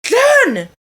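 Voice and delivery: high, loud holler of a name; retold scream. Matt hollering across the smoker's lounge, imitated scream. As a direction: call across the room in mock alarm. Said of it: "he screams out".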